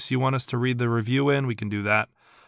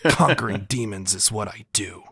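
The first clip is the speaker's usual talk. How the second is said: lightly voiced edgy hero; try-hardy edgelord voice. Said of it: "that's his try-hardy edgelord voice".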